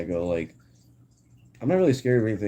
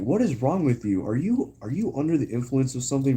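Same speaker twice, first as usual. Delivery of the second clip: retold worried parents; 4 semitones higher than usual. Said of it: "They're like".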